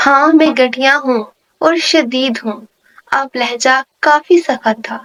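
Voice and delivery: steady, even novel-reading voice; story narration. A narrator's reading. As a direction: read the romance novel to your listeners. Novel read aloud with character dialogue.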